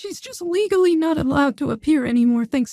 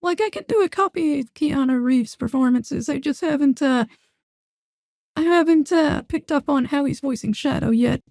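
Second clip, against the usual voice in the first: voice changer. Real, not acted. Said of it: "official gender bent voice for Shadow".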